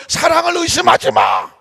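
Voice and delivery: loud, high shouted command; firm retort. Acted. Husband to doubting wife, loud high shout. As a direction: shout it down to end the argument.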